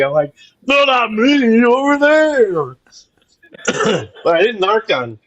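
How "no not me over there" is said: whispered misdirection. Retold or imitated. Mimed pointing cops elsewhere.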